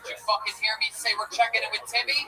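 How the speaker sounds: host pretends to scold guest for running his own show, mock anger; mock angry telling-off. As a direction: playfully chew him out as if he's out of line.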